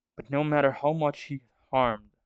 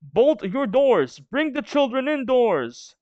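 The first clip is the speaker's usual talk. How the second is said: ominous warning; 9 semitones higher, slower than usual. Acted.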